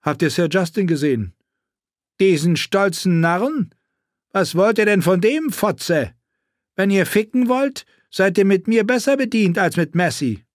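mock her with crude contempt; crude knight. A narrator's reading. Sachs voiced in audiobook.

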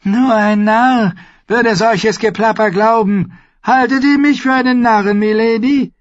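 high, loud, scornful voice; suspicious old lord. A narrator's reading. Lord Walder eyes the mother, suspicious scorn. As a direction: scoff at her plea. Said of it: "Lord Walder beäugte sie misstrauisch".

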